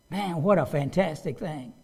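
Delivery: normal talking voice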